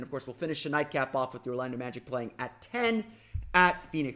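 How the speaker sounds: normal talking voice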